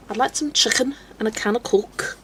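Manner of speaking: a demo of Scouse; Scouse accent. Shown as a demonstration. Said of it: "you've got the Scouse accent".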